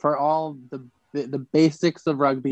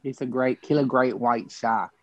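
put-on light Australian accent, croc-hunter style; a breezy Aussie wildlife-host voice. A lightly voiced Australian wildlife host doing his shark line. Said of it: "That's, that's a good accent".

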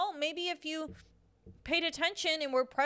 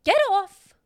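angry outburst; 4 semitones higher, 8 dB louder than usual. Real, not acted. Ranting at phone users.

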